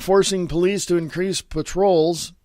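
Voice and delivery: ordinary talk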